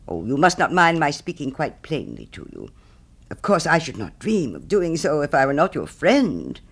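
indignant miller easing into smug moralising; scolding miller. Acted. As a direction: lecture a friend self-righteously. Miller scolds Hans in story.

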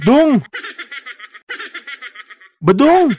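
high, laughing call of his name. Acted. Host calling sleeping guest Badong, mock-worried high call. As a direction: call him awake with a laugh.

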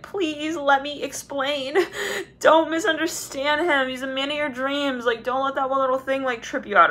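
imitated earnest appeal, stretched out; pleading. Voicing someone pleading to explain.

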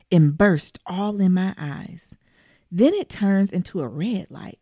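slow, steady folktale reading voice; story reading. Acted. Reader telling listeners a scary folktale, measured. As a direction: read it to them like a spooky tale. Reads folktale aloud in first person.

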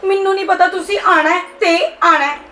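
upset daughter crying down the phone; crying as she protests; tearful. Acted. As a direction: plead through tears, giving up on the argument. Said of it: "ਤੂੰ ਰੋ ਨਾ".

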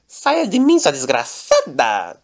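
Saia de mim bem agudo e alto, depois arrastado; berro contra a aranha. Acted. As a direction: expulsa a aranha aos gritos. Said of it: "só que ele falou assim". (Lorenzo grita com a aranha, agudo e forte)

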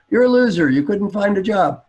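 put-on high, loud teenage put-down; acted contemptuous daughter; scornful daughter. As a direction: jeer like a fed-up teenager.

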